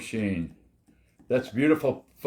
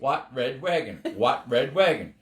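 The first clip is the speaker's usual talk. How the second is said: quicker repeated "Red wagon"; fast tongue twister. Shown as a demonstration. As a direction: rattle off the tongue twister over and over. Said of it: "say it three times real fast".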